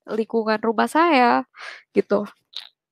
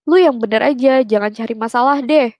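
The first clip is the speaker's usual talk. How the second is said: retold angry scolding; 3 dB louder than usual. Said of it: "Terus dia sempet marah".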